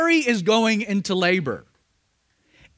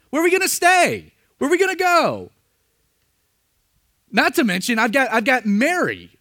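a husband at his wits' end; panicked Joseph; 2 semitones higher than usual. Retold or imitated.

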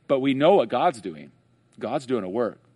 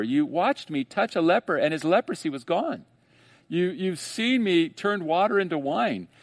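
Jesus questioning; 5 semitones higher than usual. Retold or imitated. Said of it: "the second question is".

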